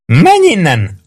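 high, drawn cry; shouted order. A narrator's reading. Maggio shouts Prue away, high-pitched. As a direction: cry out high to send him off. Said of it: "ordított Maggio".

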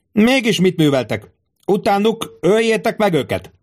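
very high-pitched angry commands; furious outburst. A narrator's reading. Tribune berates the bodyguards, furious outburst. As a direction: demand obedience in an acted rage. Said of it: "majd dühötten nézett rájuk".

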